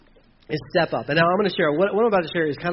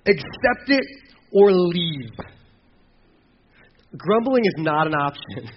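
firm ultimatum; 4 dB louder, slower than usual. Retold or imitated. Voicing Paul and James firmly.

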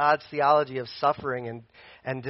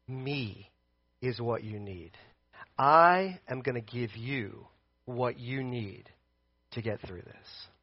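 soft, low and slow, with weighty pauses; God reassuring Paul; 5 semitones lower, 7 dB quieter than usual. Acted. Preacher voicing God promising Paul help, hushed and steady. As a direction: reassure quietly, one phrase at a time. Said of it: "He, he's saying, Paul".

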